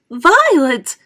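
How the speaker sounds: high, loud scream of her name. A narrator's reading. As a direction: shriek her daughter's name. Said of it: "screamed Missus Beauregard".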